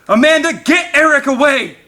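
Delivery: high, loud desperate order; urgent shout. A narrator's reading. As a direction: yell across to his wife. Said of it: "Paul shouted to his family".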